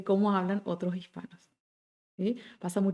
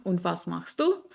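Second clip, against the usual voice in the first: slow, rising on du; question back; 2 semitones lower, slower than usual. Shown as a demonstration. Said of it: "volver otra vez la pregunta".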